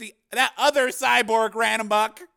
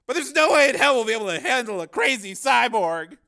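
loud, high agitated warning; alarmed argument; 12 semitones higher, 11 dB louder than usual. A narrator's reading. Cameraman warns reporter about the cyborg, alarmed. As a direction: argue urgently that it's hopeless.

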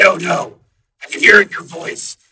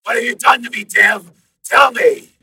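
louder demand; demanding program; 12 semitones higher, 16 dB louder than usual. A narrator's reading. Program demanding answers from Dev, angry. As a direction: press him hard.

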